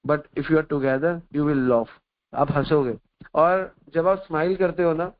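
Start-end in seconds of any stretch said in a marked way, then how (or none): 0.1-1.9 very slow, word by word; slow maxim. Acted. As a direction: spell out the lesson slowly for the listeners.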